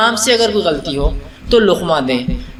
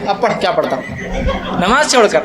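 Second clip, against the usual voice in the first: laughing retelling. Retold or imitated. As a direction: chuckle while repeating the old man's words. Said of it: "بولے". (ہنستے ہوئے دہرانا)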